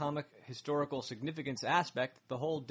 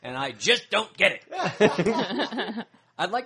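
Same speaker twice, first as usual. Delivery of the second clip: laughing; 6 semitones higher, 11 dB louder, much slower than usual. Real, not acted. Reading listener's email, cracking up.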